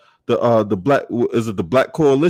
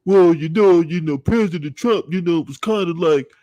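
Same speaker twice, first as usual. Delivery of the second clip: lightly mimicked politician with halting filler words; mock a hedging, mealy-mouthed senator; mild mocking imitation of a politician; Tim Scott. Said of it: "that's how he be saying".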